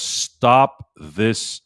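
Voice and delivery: slow, drawn-out imitation of a deep voice; slow mock PA announcement; deep announcer voice. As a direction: mimic the stadium announcer slowly. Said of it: "in that deep voice of his".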